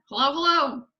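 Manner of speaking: high, loud parrot greeting; parrot calling out. A narrator's reading. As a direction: call down like a squawking bird. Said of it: "the bird called down to her".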